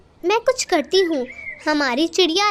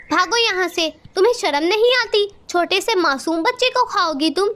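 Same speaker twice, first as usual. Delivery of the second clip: a quick, sharp scolding, slightly raised; angry scolding. Acted. Sparrow Rano shaming the eagle, a touch of angry scolding. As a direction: drive the eagle off with a telling-off.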